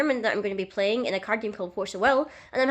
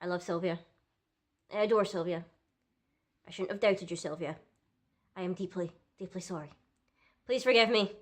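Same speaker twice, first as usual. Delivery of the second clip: mock solemn; 4 dB quieter than usual. Mock-solemn apology to a card.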